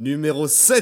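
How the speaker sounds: firm, assertive voice. Announcing the podcast episode number: firm voice. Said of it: "je dis avec une voix ferme".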